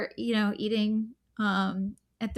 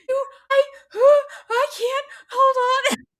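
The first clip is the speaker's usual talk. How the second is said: high and loud, words breaking through real laughter; laughing helplessly; 13 semitones higher, 9 dB louder, faster than usual. Real, not acted. Laughing too hard to talk to her husband. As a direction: barely get words out for laughing.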